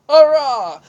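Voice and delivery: loud, high hurrah; triumphant cheer. Real, not acted. Vlogger celebrating her face in the middle, loud high cheer. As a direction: cheer the small victory.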